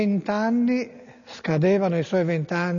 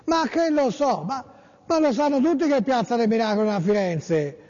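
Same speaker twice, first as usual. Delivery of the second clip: mock listener quote; 4 semitones higher than usual. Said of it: "dice Lucas da Monte Carlo".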